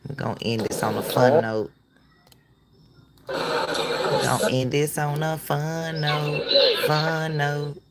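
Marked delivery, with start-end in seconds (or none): 3.3-7.8 slow, stretched-out and soft; drawn-out repeat. Real, not acted. Host signing off on a fun note, drawn out. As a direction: draw the words out slowly and softly.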